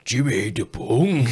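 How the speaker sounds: slow dazed murmur of the name; stoned repeat. Retold or imitated. Stoned friend repeating the nickname for the recording, slow and dazed. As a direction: say it again, half out of it. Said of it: "And he's like".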